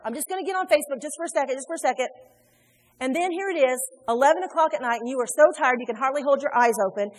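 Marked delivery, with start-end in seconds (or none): 0.0-2.1 louder, higher, fast self-excuse; casual excuse. Retold or imitated. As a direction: talk yourself into just a second. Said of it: "turn around and do it again".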